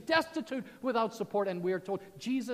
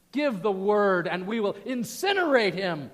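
eager angels; 8 dB louder than usual. Retold or imitated.

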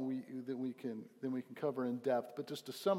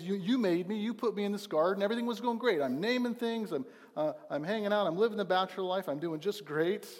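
higher, louder, indignant complaint; Adam blaming God; 6 semitones higher, 5 dB louder than usual. Retold or imitated. Pastor voices Adam accusing God, high and loud. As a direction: whine it like a put-out bachelor. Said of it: "he's blaming God here".

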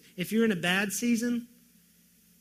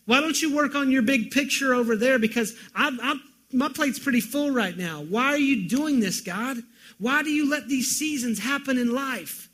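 loud, high pleading questions hurled at God; anguished cry to God; 5 semitones higher, 6 dB louder than usual. Acted. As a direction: cry out why at heaven in anguish. Preacher voicing anguished cry to God.

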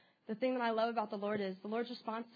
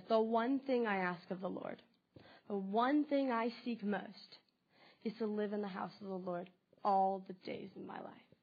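slow, deliberate verse reading; scripture reading. Acted. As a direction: draw out the longing in the verse.

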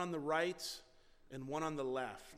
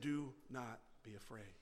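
calm angel; 6 semitones lower, 8 dB quieter than usual. Retold or imitated. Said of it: "do you think he said it calmly".

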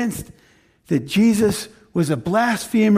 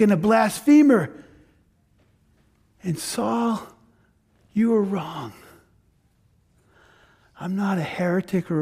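slightly raised, earnest declaring voice; voice of Jesus; 2 semitones higher than usual. Acted. Jesus confronting Saul on the road, earnest declaration. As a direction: proclaim it with conviction.

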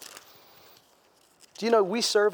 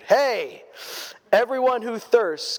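modern hey call; 4 semitones higher, slower than usual. Shown as a demonstration. Preacher reading Isaiah in modern words, a calling hey. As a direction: invite them like a friend hailing. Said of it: "we should use a different word".

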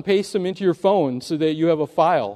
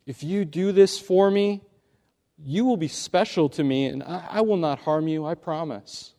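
quieter, smooth coaxing promise; soft persuasive snake; 4 dB quieter than usual. Acted. Snake sweet-talking the youth into trusting him. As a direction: win him over gently. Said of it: "said the snake".

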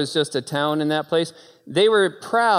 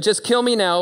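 exasperated Jonah; 6 semitones higher, 3 dB louder than usual. Acted.

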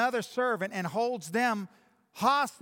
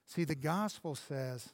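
much softer and lower, gentle and earnest; quiet pastoral tone; 5 semitones lower, 7 dB quieter than usual. Acted. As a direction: speak softly to the hurting listener.

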